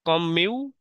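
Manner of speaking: কম মিউ split between the two m sounds; syllable break. Shown as a demonstration. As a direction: push from কম into মিউ as separate syllables. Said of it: "আমাদের ধাক্কা লাগবে আর কি".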